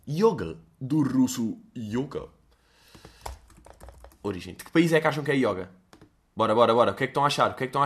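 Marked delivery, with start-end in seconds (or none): 0.0-2.3 mock etymology. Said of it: "é sempre uma cena engraçada".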